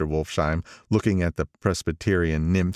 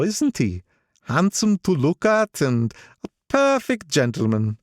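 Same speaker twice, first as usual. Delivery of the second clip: put-on much higher, proud old racketeer; old gangster voice; 9 semitones higher than usual. Old gangster praising Gatsby to the narrator, higher proud voice. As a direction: boast about him, pitched up.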